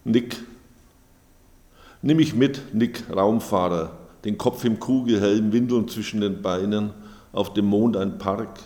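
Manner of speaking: measured, clearly projected poem recital; poetry reading. Acted. Author reading own poems to an audience, measured recital. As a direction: read it out line by line, with deliberate pauses.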